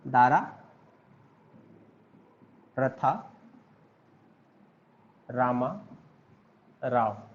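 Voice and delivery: दारा, रथा, रामा, राव said word by word with long pauses between; syllable by syllable pronunciation. Shown as a demonstration. Teacher showing students how to say the case name, word by word. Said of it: "क्या pronounce करते हैं आप लोग".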